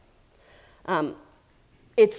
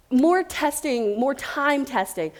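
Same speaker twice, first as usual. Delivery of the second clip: more testing said slow with more hit hard; stress on more; 3 semitones higher, slower than usual. Shown as a demonstration. Speaker drilling her point to the audience, slow emphatic stress. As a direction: lean slowly on more in more testing and more time testing. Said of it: "more time between when we".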